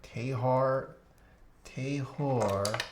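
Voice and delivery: trying out Australian vowels on "Tehar"; tentative mock Australian; Australian accent. Shown as a demonstration. Streamer practising a name, tentative Australian accent. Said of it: "Australian accent?".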